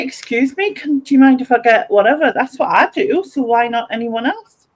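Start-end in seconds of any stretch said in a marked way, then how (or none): 0.0-2.3 politely asking to pass; courteous excuse me; polite request. Shown as a demonstration.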